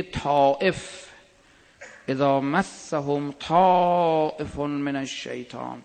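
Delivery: drawn-out Arabic verse, slow; slow Quran recitation. Acted. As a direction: intone the verse slowly.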